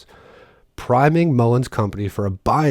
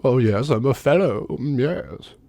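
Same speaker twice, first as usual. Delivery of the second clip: a lightly put-on voice, self-satisfied; a hint of a smug academic; mock self-important expert; 3 semitones higher than usual. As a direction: preen as if proud of the title. Mocks the quoted Brookings fellow.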